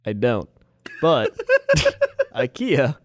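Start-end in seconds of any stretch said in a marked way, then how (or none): 1.7-3.0 high squealing laughter breaking up the words; dolphin-like laughing. Real, not acted. Friend explaining the two ikeas, laughing like a dolphin. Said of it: "sound like that dolphin laughing".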